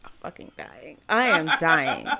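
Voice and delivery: wheezing through real laughter; barely getting words out for laughing; cracking up at the joke about a singer, gasping; breathless laughing. Real, not acted.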